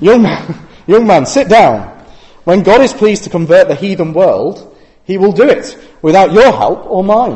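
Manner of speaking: put-on thick, broad Yorkshire accent, spoken loud. Retelling what someone told a young man wanting to spread the gospel, broad yorkshire accent. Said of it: "I've got him with a broad Yorkshire accent".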